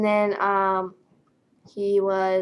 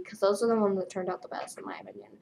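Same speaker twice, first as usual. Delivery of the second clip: whispered aside; 6 dB quieter, faster than usual. Real, not acted. Vlogger confiding her favorite pictures, in a quick whisper. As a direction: drop to a quick unvoiced whisper.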